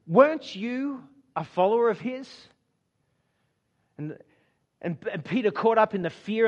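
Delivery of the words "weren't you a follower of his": a bit louder and higher, a mild accusing call across the room. Acted. Bystander by the fire calls out to Peter, a mild accusing call. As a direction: mildly call out the question. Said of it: "someone else calls out".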